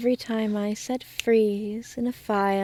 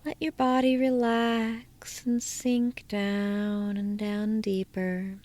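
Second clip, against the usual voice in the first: hypnotic induction. Acted. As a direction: lull the listener down into trance.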